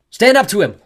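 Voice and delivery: high, loud urging; forceful, urgent command; rallying shout. A narrator's reading. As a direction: shout courage into a frightened friend. Rallying friend mid-fight.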